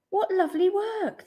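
high, delighted teacherly praise; smiling praise. A narrator's reading. Teacher admires the children's work, smiling praise. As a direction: praise with a smile. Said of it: "the teacher smiled".

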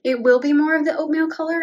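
breathless from climbing the ladder; panting between words; out of breath. Real, not acted. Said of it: "I'm, like, out of breath right now".

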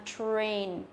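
"train" with a clear "tr" and long A; falling "train" with a full ay glide; correct model. Shown as a demonstration. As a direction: model "train" carefully, r sounded. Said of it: "Thì cái từ này đọc là".

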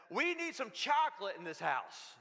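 retold yell. Wife calling out from the pantry after a tough day, mock yell. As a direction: imitate a yell from the pantry, not full force. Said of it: "heard her yell".

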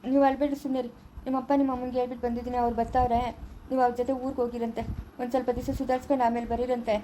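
soft, steady reassurance; gentle consoling. Acted. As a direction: hush a crying relative kindly. Consoling a crying sister-in-law.

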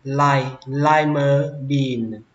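"lima" said "lai-ma", slowly; ai vowel. Shown as a demonstration. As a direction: open the first syllable of "lima" as "lai". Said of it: "Âm này các bạn đọc là âm ai".

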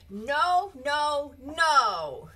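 put-on loud high protest, child refusing; child's no. Mother calls bedtime, child shouts defiant no. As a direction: stamp out each no like a stubborn kid.

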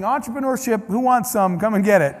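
lightly voiced hawker calling out wares; a hint of a market seller crying his goods; street peddler. A speaker retelling how he hawked entrepreneurship on Cairo streets, mock peddler call. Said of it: "I felt like a peddler, walking around saying".

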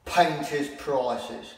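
put-on high, bright children's presenter voice; overbright kids party host. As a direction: greet them like a kids' TV host. Over-the-top greeting to boys and girls.

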